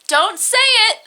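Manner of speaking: high, loud, urgent outburst; mock scream. Niall screams to stop the secret, mock scream. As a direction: cut in with a high dramatic yell. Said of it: "Niall screams".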